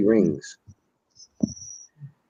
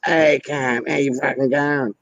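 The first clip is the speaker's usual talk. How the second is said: higher, matey Aussie call-out; friendly mock greeting to a mate; 5 semitones higher, slower than usual. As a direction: hail your mate loosely, pitched up. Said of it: "Like, you see your mate".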